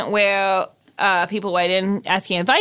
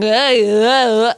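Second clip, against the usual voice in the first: strained "uh, uh" noises; mock choked grunts; mock tugged-collar groan; 4 dB louder than usual. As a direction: groan as if tugging a tight collar. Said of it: "looks like someone's going".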